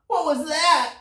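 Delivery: very high, startled ant voice. A narrator's reading. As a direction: squeak in alarm like an ant. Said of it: "cried the ant".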